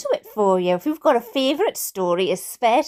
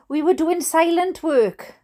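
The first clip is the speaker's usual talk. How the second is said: ordinary delivery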